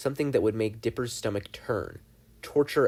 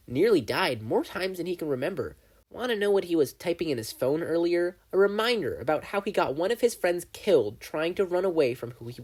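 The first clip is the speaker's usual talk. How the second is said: lightly voiced gleeful demon, a bit higher; Bill the demon; 5 semitones higher than usual. Bill mocks happy endings.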